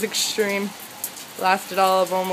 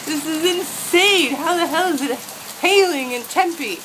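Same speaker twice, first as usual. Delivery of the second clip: amazed; 5 semitones higher, 3 dB louder than usual. Real, not acted. Amazed by sudden hail.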